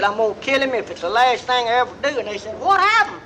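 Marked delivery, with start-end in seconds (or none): 0.0-2.2 fast, heated threat, words tumbling out; a mild mock fury, rushed; rattled off in a half-acted rage; rapid angry vow. Angry man vows revenge. 2.6-3.2 high, startled what happened; an old-timer's startled question; surprised question. Retold or imitated. Benchsitters ask the driver.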